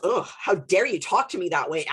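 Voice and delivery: mock indignant huff; offended attitude. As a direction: imitate someone affronted at being spoken to.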